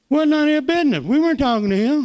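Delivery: indignant, loud and high; indignant retort. Retold or imitated. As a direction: push back hard at the boy. Retelling being fired, indignant.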